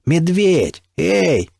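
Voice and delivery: calling out high and loud; shouting. A narrator's reading. Calling to the stalker behind the embankment, shouting. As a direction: yell the name across the embankment. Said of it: "я прокричал".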